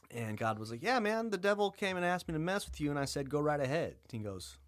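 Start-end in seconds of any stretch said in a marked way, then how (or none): 0.8-4.0 high, bright-up booming God, amused; God's voice. Retold or imitated. God telling Job the devil came, in a higher mock voice. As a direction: play God as a casual high-pitched dude.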